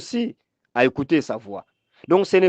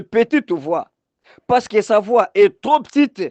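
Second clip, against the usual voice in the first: raised, insistent preacher's delivery; higher-pitched sermon exhortation; emphatic preaching; 5 semitones higher, 3 dB louder than usual. Real, not acted. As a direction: preach it with rising urgency.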